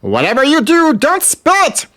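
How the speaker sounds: high, urgent villain voice; high villain warning. Acted. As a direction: warn them in a panicky squeak. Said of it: "Diablo warns them".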